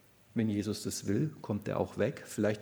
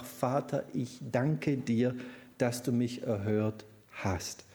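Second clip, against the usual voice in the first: reverent prayer; slower than usual. Acted.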